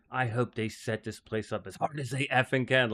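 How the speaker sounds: imitating a dead-serious, defiant vow; serious defiance. Golfer vows to beat the long course, imitated in a serious, defiant tone. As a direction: mimic her grim resolve, lightly voiced. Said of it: "like that".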